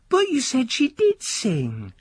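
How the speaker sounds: put-on a high, eager boy begging his uncle; the nephew keeping the old man awake; young boy nudging sleepy uncle, high and pleading; young boy's voice.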